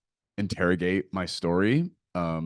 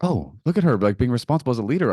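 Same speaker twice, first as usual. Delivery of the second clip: mock admiring; 5 semitones higher, 4 dB louder, faster than usual. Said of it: "I was like".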